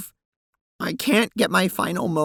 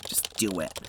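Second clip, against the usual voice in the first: low, curt and fed up; 11 semitones lower, 10 dB quieter than usual. Acted. Jade Sprite snapping back.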